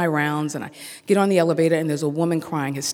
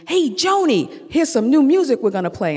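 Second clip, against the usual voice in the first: mock cheerful; 8 semitones higher, 4 dB louder than usual. Cheerily addressing the pianist.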